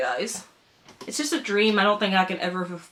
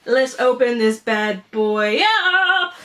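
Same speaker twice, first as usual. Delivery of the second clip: slow, drawn-out put-on voice; playful mock announcer; hammed-up voice; slower than usual. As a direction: ham up the big unboxing. Unboxing, slow far voice.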